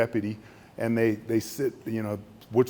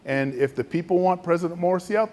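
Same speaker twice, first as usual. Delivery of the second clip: a touch higher, insisting; defensive official; 6 semitones higher than usual. Retold or imitated. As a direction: protest their loyalty to the people. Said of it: "He goes".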